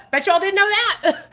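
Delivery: high, loud giggling gloat; laughing tease. Real, not acted. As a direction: laugh through the boast.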